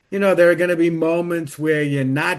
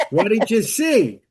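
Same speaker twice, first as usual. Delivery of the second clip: higher-pitched, slowed question; eager question; 5 semitones higher, 3 dB louder than usual. Retold or imitated. Sister asking siblings which movie, curious.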